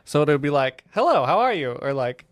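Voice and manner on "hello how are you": loud, higher automated greeting; automated machine voice. Retold or imitated. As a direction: chirp it like a vending machine prompt. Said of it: "automated, like, voice functions it has".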